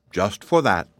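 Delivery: gruff, final, unbending; stern and gruff. Acted. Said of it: "in a stern, gruff voice".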